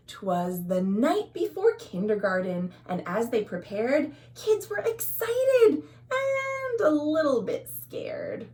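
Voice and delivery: lilting rhyming read-aloud; storybook narration. A narrator's reading. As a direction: read it like bedtime verse to little kids. Reading picture book aloud.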